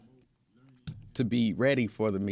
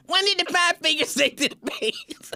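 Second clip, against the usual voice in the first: higher, pushy repeat of the question; insistent joke; 3 dB louder than usual. Retold or imitated. Pressing Lincoln with the joke, higher insistent voice.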